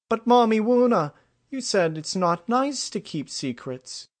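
put-on very high child's voice, loud at first; little foal protesting. A narrator's reading. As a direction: object like a puzzled tot to mother.

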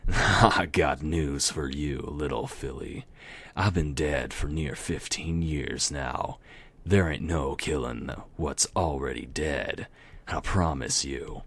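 slow southern Death voice; slow, easy southern drawl; southern accent. Acted. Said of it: "random southern accent".

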